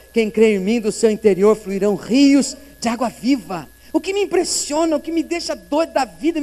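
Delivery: building sermon voice; fervent preaching. Acted. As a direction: preach it to the congregation. Preaching with rising force.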